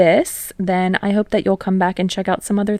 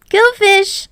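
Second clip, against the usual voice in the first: high gleeful taunt; 12 semitones higher, 5 dB louder than usual. Acted. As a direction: crow it with glee. Card game taunt.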